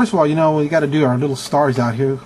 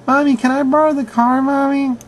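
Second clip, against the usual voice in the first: high, whiny mock little boy asking mommy; mock a grown man begging his mom for the car; hammed-up childish plea, much higher; mock mama's boy; 9 semitones higher than usual. Mocking 36-year-old asking mom.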